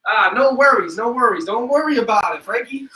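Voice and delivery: put-on playful Jersey boy voice; light mock Jersey boy accent. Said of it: "Jersey boy accent".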